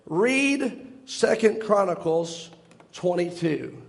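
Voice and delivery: very slow, spaced-out instruction; solemn divine command. Retold or imitated. Preacher quoting the voice that sent him to scripture, very slow and deliberate. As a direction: leave pauses between the parts of the reference.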